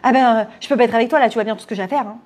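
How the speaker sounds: quick, mildly reproachful brush-off; acted-out reproach, a little hurried. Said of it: "Ça sonne comme un reproche".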